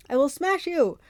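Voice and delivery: loud, high Cyclops threat; enraged monster yell. A narrator's reading. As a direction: yell it in pained fury. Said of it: "Polyphemus yelled".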